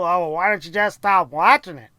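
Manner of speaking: a hint of a whiny viewer; mocking critics. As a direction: mimic the annoying commenters. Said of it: "A lot of you fucking people".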